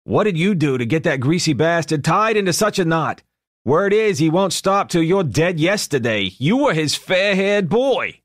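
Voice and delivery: booming gruff interrogation; loud gangster voice. A narrator's reading. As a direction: press him like a loud blunt mob boss. Ed questions Guidry loudly.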